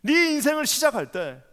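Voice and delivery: impassioned sermon, rising to ringing peaks; preaching. Acted. Pastor preaching fervently to the congregation. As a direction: preach it with full fervour to the church.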